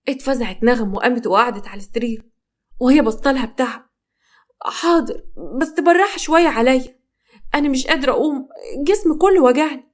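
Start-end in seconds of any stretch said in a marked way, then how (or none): 4.6-9.8 high, fragile voice of pain; aching bride begging for gentleness, pitched high; pained and weak. Acted.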